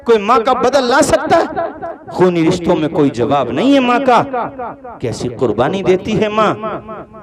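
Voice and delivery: preacher praising the mother at full force; full-force preaching. Acted. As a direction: thunder it out to the congregation.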